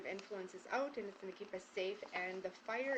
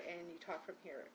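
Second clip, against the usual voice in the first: calm lowered voice; 3 semitones lower, 6 dB quieter than usual. Shown as a demonstration. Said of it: "your voice will go down, and you'll be more calmer".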